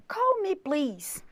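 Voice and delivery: slow, careful model phrase; slow demo. Shown as a demonstration. Teacher models the phrase slowly for students. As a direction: stretch out "Call me, please" slowly. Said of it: "se você falar assim".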